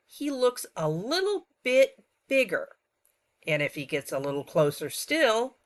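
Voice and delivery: put-on classroom teacher talking to young kids. Shown as a demonstration. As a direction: explain it like you're teaching children. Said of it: "I'll be teaching in my teacher voice".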